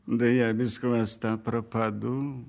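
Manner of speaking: cunning lively fox; sly fox voice. Acted. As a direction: speak as a crafty fox. Fox character speaks.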